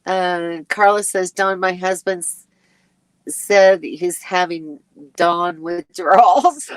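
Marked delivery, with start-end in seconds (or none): 1.3-6.8 reading through a laugh. Real, not acted. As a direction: laugh as you read it. Reads comment, laughing.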